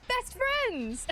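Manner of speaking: very high, gleeful imitation; excited squeal. Woman declaring new foreign friends, excited squeal. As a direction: squeal it like an instant best friend.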